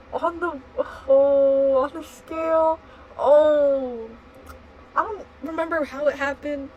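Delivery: high, loud, losing it to laughter; trying not to laugh. Real, not acted. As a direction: fight back laughter mid-sentence. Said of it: "trying not to laugh".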